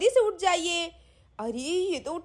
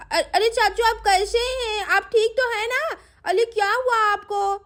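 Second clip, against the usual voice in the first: put-on higher, eager little-girl voice; a sweet girl coaxing the cow, pitched up; girl pleading with a hungry cow, higher voice; little girl Sweety; 5 semitones higher than usual. Sweety worried for uncle.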